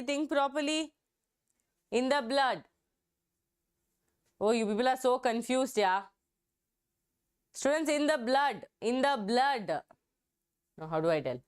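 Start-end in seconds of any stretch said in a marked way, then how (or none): 1.9-2.6 "blood" set apart as the key word; teacher underlining "blood" as a hint; stress on blood. Real, not acted. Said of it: "I kept stressing the word blood". 7.9-9.8 teacher stressing "blood" for confused students. Real, not acted. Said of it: "I kept stressing the word blood".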